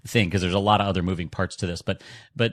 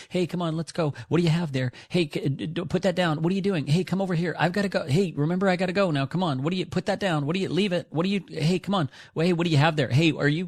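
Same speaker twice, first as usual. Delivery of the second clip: much higher, sing-song pet talk; chatty dog owner; 9 semitones higher than usual. Retold or imitated. Owner chit-chatting with dog on walk, high pet-talk voice. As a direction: coo and nag at the dog nonstop, pitched way up. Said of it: "You see people walking their dog going".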